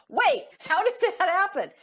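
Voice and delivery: high-pitched, baffled mock outcry; mock bewilderment. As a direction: act out a puzzled player, voice jumping up. Puzzled players in telephone game.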